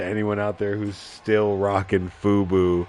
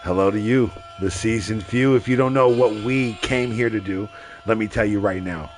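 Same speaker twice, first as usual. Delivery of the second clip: hype announcer. Acted. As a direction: sell the show like a ring announcer.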